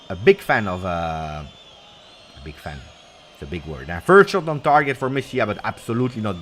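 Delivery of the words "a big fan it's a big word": hushed aside. Real, not acted. Hushed aside while reading chat.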